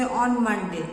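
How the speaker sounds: unexcited, low-pitched reply. Shown as a demonstration. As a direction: demonstrate a subdued, low-toned answer. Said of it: "in a low pitch".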